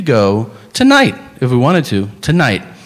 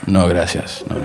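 broken Spanish; 8 semitones lower, 5 dB quieter than usual. Retold or imitated. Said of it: "horrifically broken Spanish".

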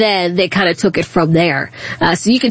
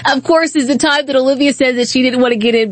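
exasperated laughing; 5 semitones higher than usual. Retold or imitated. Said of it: "I said".

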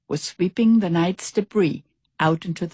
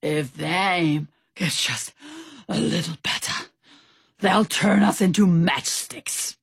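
out of breath. Acted. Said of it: "Stout Sam panted".

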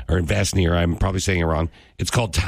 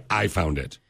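understated matter-of-fact; 3 semitones lower, 5 dB quieter than usual. Real, not acted. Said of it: "I love how I say".

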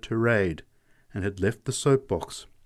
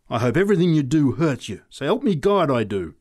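louder, higher savage curse; 4 semitones higher, 6 dB louder than usual. A narrator's reading. Woman cursing the man who shoved her, savagely. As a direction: spit a curse at the one-armed man who bumped her. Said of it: "she said savagely".

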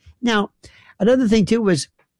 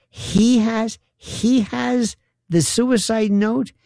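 higher-pitched, drawn-out disbelief; incredulous; 5 semitones higher, slower than usual. Retold or imitated. Host on the cellmate having the note, incredulous. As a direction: question it slowly, in disbelief.

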